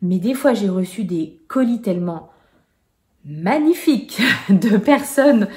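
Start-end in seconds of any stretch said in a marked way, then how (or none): 3.2-5.5 slow, louder, laughing through the word; real laugh while praising the parcels; laughing delight. Real, not acted. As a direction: gush with a laugh over the gifts.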